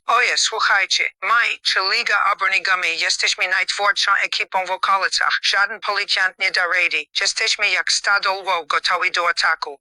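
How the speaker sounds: put-on boastful gang talk in a heavy Polish accent; strong Polish accent, cocky; thick Polish accent. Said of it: "In a thick Polish accent".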